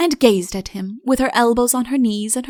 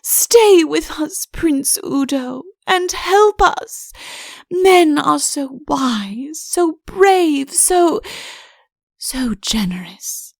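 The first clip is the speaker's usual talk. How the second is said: high, slow pleading; a high, slow plea to the prince; beseeching; 6 semitones higher, much slower than usual. A narrator's reading. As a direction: implore him, stretching each word. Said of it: "held her arms out to him beseechingly".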